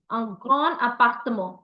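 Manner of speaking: "un grand appartement" with a nasal vowel in "grand"; masculine French form. Shown as a demonstration. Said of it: "I'm using the term grand".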